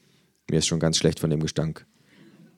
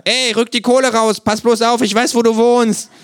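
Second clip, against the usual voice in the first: much higher, louder hammed-up thug; mock gangster threat; 9 dB louder than usual. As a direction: play a cartoon debt collector.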